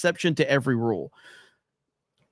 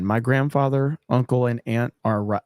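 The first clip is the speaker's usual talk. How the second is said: lower, hushed mock ASMR; mock ASMR read; 5 semitones lower than usual. Shown as a demonstration. Streamer reads chat donation in joking ASMR, lower and hushed. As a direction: lower and hush the read for a joke. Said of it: "Let me go A S M R".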